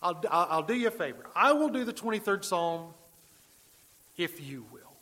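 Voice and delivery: mildly self-important, retold boast; a touch of grand condescension, easing off at the end; arrogant actor. Actor grants an old man his request for the Psalm, mildly arrogant. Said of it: "in a moment of arrogance".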